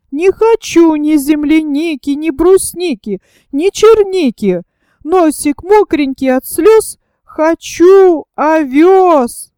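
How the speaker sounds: tearful-sounding demand, mildly pouty; whiny child. Acted. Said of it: "Закапризничал сынишка".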